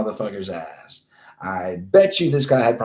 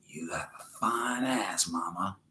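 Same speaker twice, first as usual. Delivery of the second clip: imitated whisper; 2 semitones lower, 12 dB quieter than usual. Groper to a lady in her ear, mock whisper. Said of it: "whispering in her ear".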